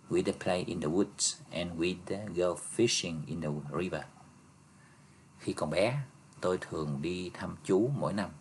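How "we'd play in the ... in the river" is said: slow careful reading. Shown as a demonstration. Teacher reading an example to students, slow and clear. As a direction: read the model sentence slowly and clearly. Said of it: "đây có nghĩa là would á".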